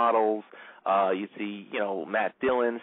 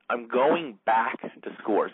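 drawn out for effect; slowed dramatic quote; much slower than usual. Retold or imitated. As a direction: retell her line very slowly, word by word. Dramatic replay of her key line.

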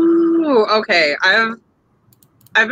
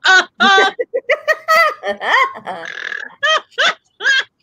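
laughing; 6 semitones higher than usual. Real, not acted. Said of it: "Can't say that with a straight face".

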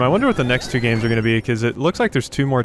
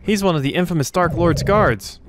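guard villain voice; 6 semitones higher than usual. Acted. Reading game villain text in voice.

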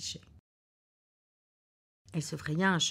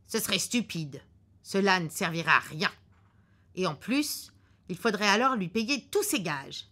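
the husband's voice, louder and a bit higher, certain of himself; gruff husband; 3 semitones higher, 5 dB louder than usual. Acted. Husband in the car predicting a cancelled flight, curtly sure. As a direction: lay out the bad news like a know-it-all husband.

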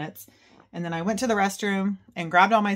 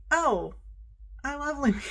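gushing; 9 semitones higher than usual. Retold or imitated. Gushing inner thought about Lumiere.

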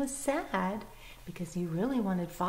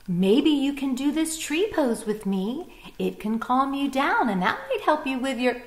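gentle bunny voice; 4 semitones higher, 4 dB louder than usual. Acted. Bunny suggests to Bird.

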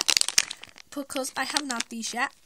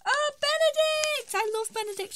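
delighted; 13 semitones higher, 4 dB louder than usual. Real, not acted. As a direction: gasp out the name, thrilled, then gush. Delighted reveal of a favourite figure.

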